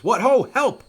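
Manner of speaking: high, loud acted call for help; breaking his silence. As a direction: yell out as the hidden Polonius. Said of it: "Polonius breaks his silence".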